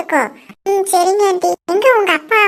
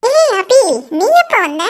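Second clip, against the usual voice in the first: high, loud delighted call across the hall; aunt spotting her niece and calling out happily; excited greeting; 3 semitones higher, 3 dB louder than usual. Acted. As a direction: call out to her, thrilled to see her.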